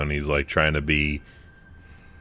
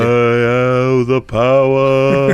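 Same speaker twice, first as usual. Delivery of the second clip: put-on slow, loud, higher Russian accent; booming villain line in a Russian accent; 5 semitones higher, 6 dB louder, much slower than usual. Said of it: "his bad Russian accent".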